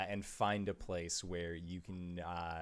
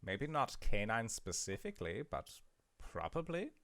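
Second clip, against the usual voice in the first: lightly voiced hag, a bit high; a hint of an old hag answering; surface hag voice; 3 semitones higher than usual. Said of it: "like a surface hag".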